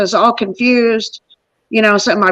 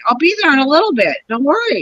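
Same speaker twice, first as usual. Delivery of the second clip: placating; 4 semitones higher, faster than usual. Retold or imitated. Placating her annoyed husband.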